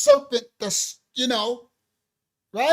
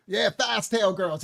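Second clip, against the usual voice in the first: slow grandma saying; 2 semitones lower, slower than usual. Retold or imitated. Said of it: "that's another one they call them".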